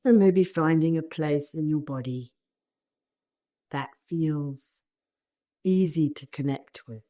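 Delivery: calm meditation guiding with long pauses; spacious, unhurried instructions, phrase by phrase; guided meditation. Real, not acted. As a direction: guide them gently into the body.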